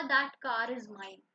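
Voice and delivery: drawn-out, word-by-word reading; slow dictation. Shown as a demonstration. Teacher to students, slow dictation. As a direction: dictate slowly so they can write. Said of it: "फिर मैंने कहा".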